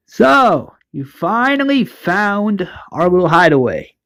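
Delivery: lightly acted gloating leader; taunting villain. Marauder leader greets intruders at the hideaway, taunting.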